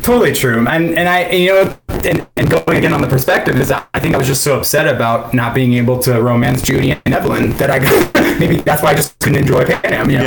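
peaking mic, distorted audio; clipped, overdriven mic sound; fuzz distortion. Real, not acted. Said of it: "your mic is peaking".

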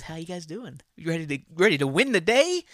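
fake-cheerful pep talk voice; mock peppy coworker. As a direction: play the lame motivator. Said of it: "it was".

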